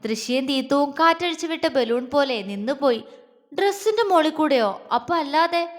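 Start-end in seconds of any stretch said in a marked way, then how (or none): 3.5-5.8 higher, disbelieving question; puzzled surprise. Acted. Friend questioning Jwala's innocent answer, in surprise. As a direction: stress on ഡ്രസ്സിന്റെ, asked in disbelief. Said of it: "തീത്തു നെറ്റി ചുളിച്ചു".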